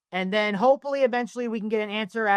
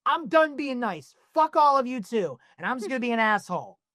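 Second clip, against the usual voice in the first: fed-up outburst; 3 semitones higher than usual. Retold or imitated. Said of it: "you're like".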